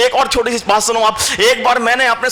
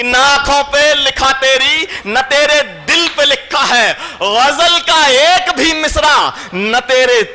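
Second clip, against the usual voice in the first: higher, slow, drawn-out ghazal delivery; poetry recital; 5 semitones higher, slower than usual. Acted. Poet reciting his ghazal to the audience, slow and sung-out. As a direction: savour each line for the crowd.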